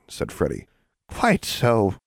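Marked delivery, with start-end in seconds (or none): 1.1-2.0 cheerful hag. A narrator's reading. Hag to gawking children, cheerful. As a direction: agree brightly as a cheerful hag. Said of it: "said the hag cheerfully".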